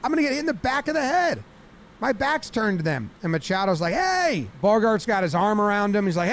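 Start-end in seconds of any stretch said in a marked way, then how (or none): 0.0-3.1 high, rapid panicked protest; mock frantic complaint; imitated yelling. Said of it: "He's screaming and yelling". 3.9-4.5 high-pitched drawn-out hey; acted sharp call. Acts out teammate calling out.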